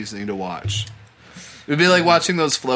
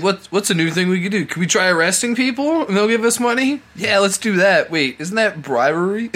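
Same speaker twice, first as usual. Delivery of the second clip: lightly voiced scheming scammers, higher; mock scammer voices; 6 semitones higher than usual. Friend mimics scammers brainstorming a new scam, mock voices. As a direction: play the scammers plotting, a bit raised. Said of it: "They're like".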